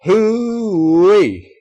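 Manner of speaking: the whole crowd hollers at once; loud Southern cheer; joyful whoop. A narrator's reading. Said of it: "let out a single word".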